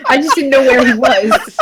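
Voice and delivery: laughing. Real, not acted. Laughs at own mistake.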